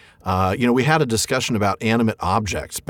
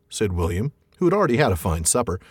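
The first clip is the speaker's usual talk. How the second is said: reading the troll scene aloud with voices; story reading. A narrator's reading. Podcast host reading the troll scene to his co-host, story narration. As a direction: read it like a storyteller at the fireside.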